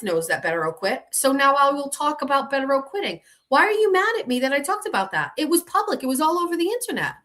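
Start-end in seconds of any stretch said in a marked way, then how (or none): 1.1-7.1 higher, rising indignant pitch, rushing the last line; exasperated rant. Real, not acted. Defending herself to viewers, exasperated rising rant. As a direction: build the outrage, speeding at the end.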